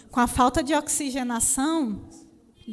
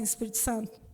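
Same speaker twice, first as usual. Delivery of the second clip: tearful plea. Retold or imitated. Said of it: "no auge do meu drama, do choro".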